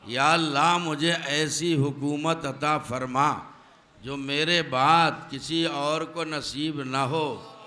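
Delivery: repeated prayer. Shown as a demonstration. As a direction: call out the prayer slowly. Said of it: "یہی repeat کروں گا".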